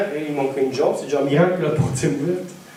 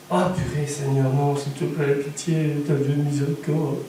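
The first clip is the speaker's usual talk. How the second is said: soft mock pleading; 5 semitones lower, 5 dB quieter than usual. Muttered pleading.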